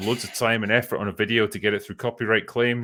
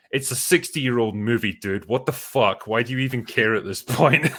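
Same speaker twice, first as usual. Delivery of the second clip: blunt retort; 4 semitones higher, 4 dB louder than usual. Retold or imitated. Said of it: "counter response was just straight up".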